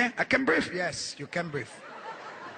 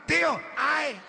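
high mock wheeze; mocking kids; 6 semitones higher than usual. Three-year-olds mocking their gasping uncle. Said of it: "making fun of him".

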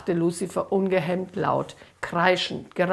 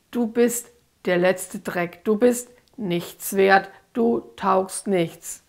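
parroted scolding; slower than usual. Acted. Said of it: "Lucifer schimpfte auf sie ein. Wieder klang es wie, wie nachgeplappert".

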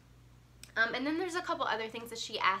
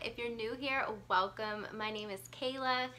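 blocked nose from a cold; stuffy nose, recovering from cold; congested. Real, not acted. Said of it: "Sorry if I sound a little congested".

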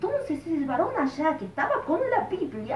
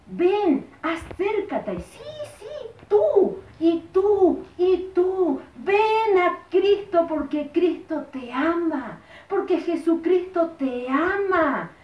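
preacher calling out; 3 semitones higher, 4 dB louder, slower than usual. Retold or imitated. Preacher calls people forward.

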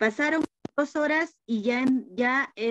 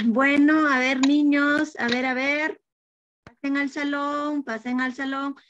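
teacher calling the class; 3 semitones higher, 3 dB louder than usual. Acted.

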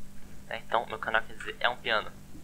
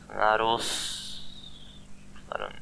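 whisper; 4 dB quieter, much slower than usual. Shown as a demonstration. Sounding out a name slowly.

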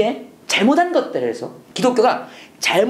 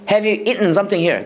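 slow model sentence; much slower than usual. Shown as a demonstration. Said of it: "해야 돼".

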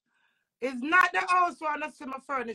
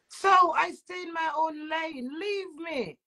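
crying; 4 semitones higher, slower than usual. Real, not acted. Tearful rant at ex-partner.

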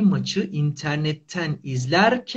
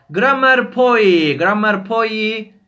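drawn-out summoning call; loud slow call; 4 semitones higher, 5 dB louder, slower than usual. Pretend. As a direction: call it out slowly like a spell. Calling the class program like incantation.

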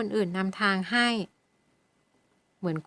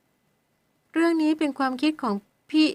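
high, slow startled exclaim; startled question; 7 semitones higher, 4 dB louder, much slower than usual. Acted. Weeping girl suddenly learning who decided, startled. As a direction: jump up in shocked disbelief.

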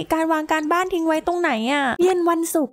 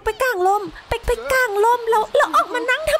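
higher, disbelieving laugh through the words; 7 semitones higher than usual. Real, not acted. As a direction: crack up at the sim's silliness. Laughing at sim in storm.

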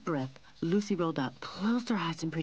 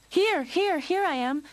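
very high, loud reply; high-pitched, flustered answer; flustered calling back; 13 semitones higher, 7 dB louder than usual. A narrator's reading. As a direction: call back hastily and nervously. Lionel answers his mother's call in alarm.

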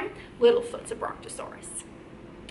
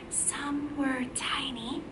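whisper; 11 dB quieter than usual. Shown as a demonstration. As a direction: whisper it as if tiny. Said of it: "Can you whisper with me?".

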